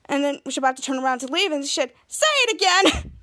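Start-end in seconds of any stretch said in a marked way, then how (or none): 2.1-3.1 high, drawn-out excited plea; delighted demand. Retold or imitated. Bianca to Henry before leaving, delighted demand. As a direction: beg for it with glee.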